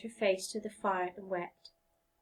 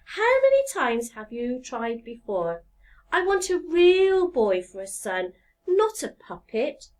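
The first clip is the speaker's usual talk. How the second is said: weary wife; 2 semitones higher, 5 dB louder than usual. Acted. Wife's weary lament.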